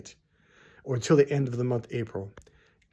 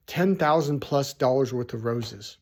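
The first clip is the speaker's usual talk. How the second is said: ordinary talk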